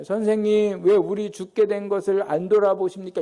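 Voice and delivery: mildly genteel, measured appeal; refined and polite. Shown as a demonstration. Disciples politely appealing to their teacher as the boat sinks, refined and restrained. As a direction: ask it politely, without any outburst. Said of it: "그냥 고상하게 한 게 아니에요".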